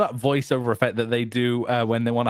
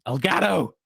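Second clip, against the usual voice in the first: reverb announcer shout; 5 semitones higher than usual. Acted. Brand shout.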